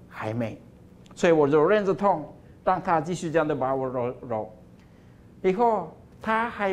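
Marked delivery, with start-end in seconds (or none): 0.1-0.6 low, soft, unhurried no; calm quiet refusal. Acted. Potter quietly refuses the begging cup, low and soft. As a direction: deny it gently and firmly, lower.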